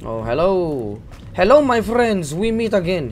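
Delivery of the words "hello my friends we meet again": high booming barbarian greeting; hammed-up warrior hailing his foes. Greets cave enemy in character.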